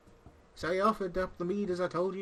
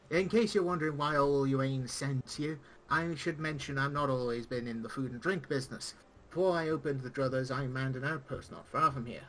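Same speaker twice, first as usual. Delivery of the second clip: pirate-esque speech. Acted. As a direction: play the gruff old tavern pirate, not too broad. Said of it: "pirate-esque speech".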